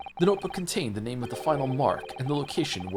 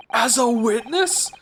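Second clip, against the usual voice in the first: aghast; 10 semitones higher, 5 dB louder, slower than usual. Acted. Alarmed question.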